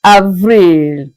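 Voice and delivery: Avril as "av-REEL"; French pronunciation. Shown as a demonstration. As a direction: say Avril with a drawn-out second syllable. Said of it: "April is pronounced as Avril".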